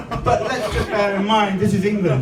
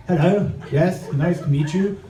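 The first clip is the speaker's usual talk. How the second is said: reserved English. Retold or imitated. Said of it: "Being from England, it's a bit more subtle, a bit more reserved".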